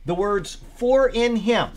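preacher reading out a study note; emphatic read-aloud. Real, not acted. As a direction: read the commentary out with deliberate emphasis. Reads commentary aloud to group.

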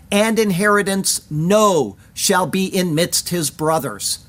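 "no" set apart and stressed; deliberate word-by-word reading, weight on "no"; emphatic "no". Shown as a demonstration. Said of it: "Also, the words are emphatic".

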